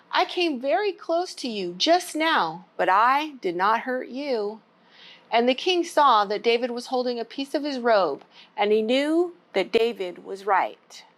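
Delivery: put-on gentle storybook read-aloud for kids; story time reading. Children's librarian reading a Bible story, gentle.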